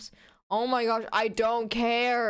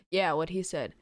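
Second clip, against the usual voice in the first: monotone deadpan; 5 semitones lower than usual. Acted. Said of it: "completely monotone voice and a deadpan expression".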